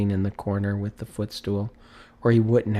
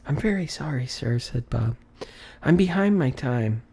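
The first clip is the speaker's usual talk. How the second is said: higher, apologetic clerk's voice; nervous clerk; 4 semitones higher than usual. Acted. Bob apologizes to his employer, meek and higher. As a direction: beg pardon for being late.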